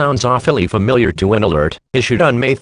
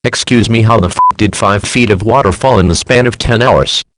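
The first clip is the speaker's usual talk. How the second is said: louder, disbelieving rant; indignant outburst; 5 dB louder than usual. Real, not acted. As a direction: call out the absurdity loudly. Outraged at absurd alert.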